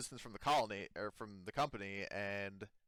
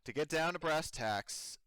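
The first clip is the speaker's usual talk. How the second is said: Megan's voice; 6 semitones higher, 5 dB louder than usual. Acted. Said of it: "So she says".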